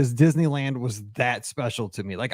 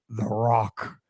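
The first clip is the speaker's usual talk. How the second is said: slow, low dramatic announcement; dramatic title reveal; 6 semitones lower, 3 dB quieter than usual. Acted. Podcast host reveals the trip's last stop, dramatic title reveal. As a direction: draw out the film title for effect. Builds list up to film title.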